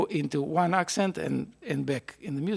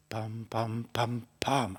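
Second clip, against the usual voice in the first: first "Pam" accented, sung softer; accent on the downbeat; 4 semitones lower, 4 dB quieter, much slower than usual. Shown as a demonstration. Teacher shows the accent on the downbeat, sung. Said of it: "I need an accent there".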